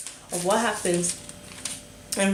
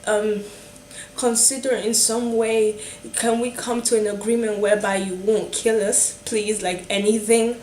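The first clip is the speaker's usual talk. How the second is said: desperate pleading; 3 semitones higher than usual. Retold or imitated. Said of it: "were so desperate".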